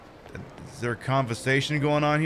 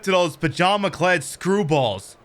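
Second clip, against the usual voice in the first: game hero butting in with a hail; lightly voiced protagonist; 8 semitones higher, 7 dB louder than usual. Passer-by hailing mother after overhearing, lightly acted casual butting-in. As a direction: call out "oi", then explain casually.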